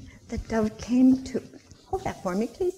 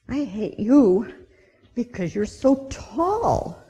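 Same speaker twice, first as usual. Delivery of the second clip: grumpy ant; 2 semitones higher, 4 dB louder, slower than usual. Acted. Ant voiced in story.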